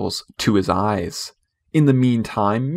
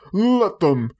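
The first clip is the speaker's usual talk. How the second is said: reckless; 8 semitones higher than usual. Acted. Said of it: "he answered recklessly".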